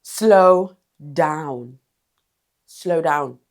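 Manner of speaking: loud, drawn-out "Slow down"; firm command. Shown as a demonstration. Coach telling a rushing speaker to ease off, loud and firm. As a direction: call out to stop the rushing. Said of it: "You can slow down your tone and your pace".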